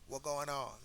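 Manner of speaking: rough attempt at a Jamaican greeting; half-successful Jamaican accent; broken Jamaican accent. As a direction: try a Jamaican accent, not quite getting it. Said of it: "you just heard my broken Jamaican accent".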